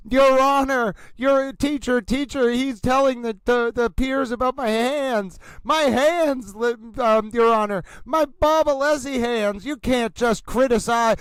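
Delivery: mock the lawyer whining to the judge about his hands; mock whiny yell. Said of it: "he started yelling".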